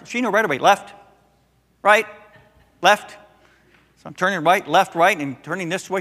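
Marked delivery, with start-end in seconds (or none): 0.6-3.1 put-on bossy little girl. Granddaughter calls directions.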